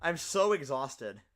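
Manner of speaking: slow, worn-out delivery; tired. Real, not acted. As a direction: drag it out, exhausted. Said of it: "I'm so tired right now".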